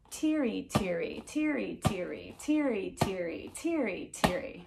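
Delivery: soft, even rhythmic chant of "tiri tiri"; steady beat. Shown as a demonstration. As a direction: keep each "tiri" falling evenly on the pulse. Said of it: "to our steady beat".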